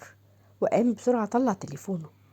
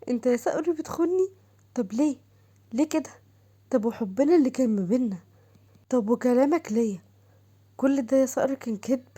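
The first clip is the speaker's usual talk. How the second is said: wife confronting her cheating husband, pitched up; hurt wife voice; 3 semitones higher than usual. Acted. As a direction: voice the betrayed young wife, pitched up. Wife accusing husband of betrayal.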